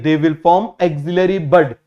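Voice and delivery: slow, deliberate note-taking read; slow dictation. Shown as a demonstration. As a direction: dictate it slowly for the class. Teacher dictates notes slowly.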